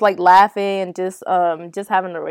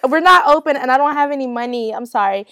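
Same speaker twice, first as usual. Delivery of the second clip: louder, higher polite refusal; raised apologetic voice; 4 semitones higher, 4 dB louder than usual. Retold or imitated. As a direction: call it through the door, louder. Retelling refusing at door.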